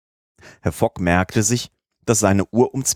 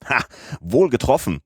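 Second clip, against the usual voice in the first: higher-pitched exclamation; triumphant, higher-pitched cheer; called out; 6 semitones higher than usual. A narrator's reading. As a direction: cry out in approval. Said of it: "rief Passepartout".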